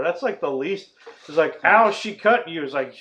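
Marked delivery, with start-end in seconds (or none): 1.6-2.6 higher, louder sarcastic whine; mock whine. Mocking Jack's complaint about Wendy, sarcastic hammed-up whine. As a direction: throw his whining back at him.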